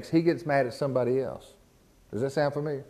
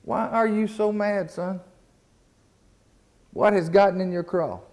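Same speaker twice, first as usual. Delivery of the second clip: voicing God; 6 semitones higher than usual. Preacher voicing God gently asking Cain why he is angry. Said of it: "And the Lord said".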